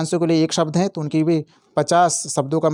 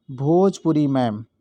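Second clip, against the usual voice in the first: Bhojpuri ma'am spaced out slowly, word by word; slow teacher's recital of the trick; slow mnemonic; 2 semitones lower, slower than usual. Shown as a demonstration. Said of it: "आपको ध्यान रखना है".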